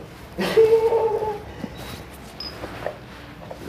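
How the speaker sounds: high breathy laugh; squeal, then laugh out the breath. Real, not acted. Guest after joking about swearing off, high breathy laugh.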